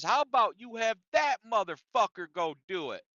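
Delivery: retold workplace outburst, moderately heated; imitated angry shouting. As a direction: act out a coworker's indignant complaint, part-shouted. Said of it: "he's shouting with our manager and says".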